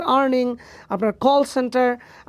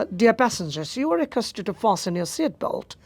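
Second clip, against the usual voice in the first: cabin crew announcement; much slower than usual. Retold or imitated. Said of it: "cabin ক্রুরা তারা যে কথা বলে".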